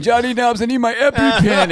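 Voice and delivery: high-pitched mock plea; imitated allergic friend. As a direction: lightly mimic a friend begging for help. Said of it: "yeah, he was saying".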